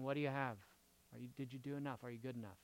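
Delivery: tag. Acted. Voicing Jesus as qualification-checking doorman.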